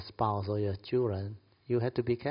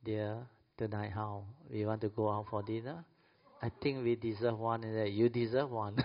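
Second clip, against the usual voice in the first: polite invitation; 5 dB quieter than usual. Retold or imitated. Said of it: "you should have politeness".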